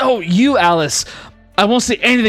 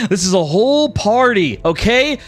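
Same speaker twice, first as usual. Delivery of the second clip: flamboyant god voice; 5 semitones higher than usual. Acted. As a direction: beckon everyone in like a showman. Rex calls party together.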